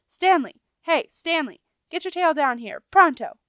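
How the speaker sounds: loud, high call out a window; yelling. A narrator's reading. Rat yelling out the window for Stanley, high and loud. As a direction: bellow up the building for Stanley. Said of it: "leaned out a small window and yelled".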